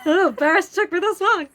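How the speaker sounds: fast, laughing put-on confession; laughing mock embarrassment. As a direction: rattle it off half-laughing.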